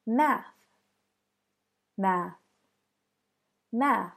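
"Math" ending in an airy unvoiced th; "Math" with the tongue tip out at the end; unvoiced TH demo. Shown as a demonstration. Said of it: "Next example".

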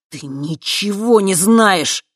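slow, loud, forced through teeth; slow loud seething retort; hissed anger. Acted. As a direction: grind each word out in resentment. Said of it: "процедил он".

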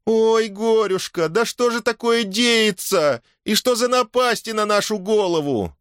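woman wailing over misfortune; wailing lament. Acted. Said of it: "принялась причитать".

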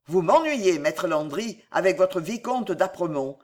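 exclaiming. Acted. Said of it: "s'écria Pardeillan".

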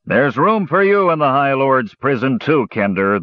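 cold threat from an officer; lightly voiced menacing officer; dark threat. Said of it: "the Dragon Army officer said darkly".

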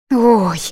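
a short moan of pain. Acted. Heroine hurt by the fall, pained moan. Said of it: "простонала я".

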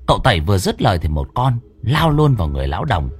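usual speaking voice

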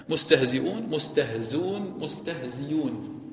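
مستهزئون with the hamza, then مستهزون with no hamza and no ya, then مستهزيون with a clear ya; three readings. Shown as a demonstration. Quran teacher demonstrating three readings, carefully and slowly. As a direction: say مستهزئون, مستهزون, مستهزيون distinctly one after another. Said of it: "بقراءة ثلاث".

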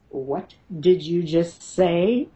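slow, deliberate mother-bear challenge. Retold or imitated. Mother confronts the voice threatening her son, slow and protective. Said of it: "My mother bear comes out".

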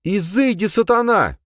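loud high-pitched cry; high, forceful exorcising shout; shrill outcry. A narrator's reading. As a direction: cry it out like casting out the devil. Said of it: "Она выкрикнула".

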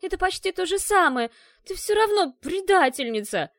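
высоко и громко, гневно; рявкни обвинение в предательстве; рявкнула. Acted. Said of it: "рявкнула она". (гневный окрик Ашки на подругу)

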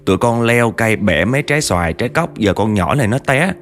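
put-on pleading kids, pitch climbing; imitated tearful pleading. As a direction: beg for help like upset children, without real sobs. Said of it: "Tụi nó vừa khóc vừa nói là". (giả giọng con nít mếu máo cầu cứu)

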